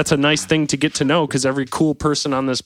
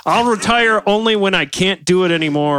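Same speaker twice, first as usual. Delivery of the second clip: put-on German accent; 6 semitones higher, 4 dB louder than usual. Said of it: "in his heavy German accent".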